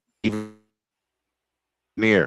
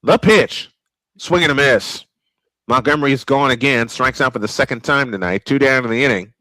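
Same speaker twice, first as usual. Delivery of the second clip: radio baseball announcer calling the game; steady play-by-play announcer voice. Acted. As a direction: call it like a ballpark broadcaster.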